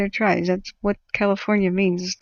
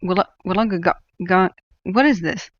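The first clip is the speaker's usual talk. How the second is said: mock news report. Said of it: "can you imagine me covering Australia fires".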